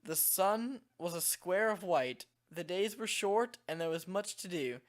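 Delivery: measured reading with a slight British lilt; storybook narration, faintly British; light British accent. Real, not acted. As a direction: read it out with a hint of a British accent. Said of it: "weird British accent when I read these".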